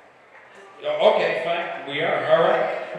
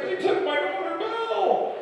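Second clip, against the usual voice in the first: frantic panicked dad. Retold or imitated. Belle's dad bursts into the tavern, high panicked wail.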